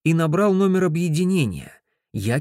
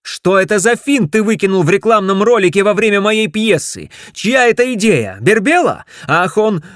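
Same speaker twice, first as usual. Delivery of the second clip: loud, higher angry barrage; furious yelling; 8 semitones higher, 9 dB louder than usual. Acted. Ted yells at Griff, loud and furious. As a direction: tear into him.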